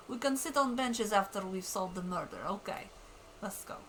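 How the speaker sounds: lightly put-on Russian accent. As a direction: read the lieutenant with a Russian accent. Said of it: "I gave him a Russian accent".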